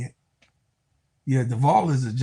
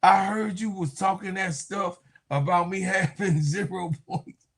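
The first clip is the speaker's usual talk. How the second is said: mock player's retort; 4 semitones higher than usual. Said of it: "she said".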